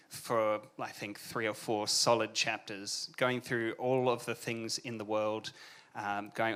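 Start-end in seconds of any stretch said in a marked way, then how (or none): none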